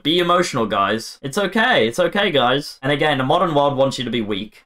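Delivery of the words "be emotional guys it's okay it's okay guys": high-pitched mock coddling; mocking reassurance. Imitating the modern world telling men it's okay, mocking. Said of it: "has convinced men that being emotional is good".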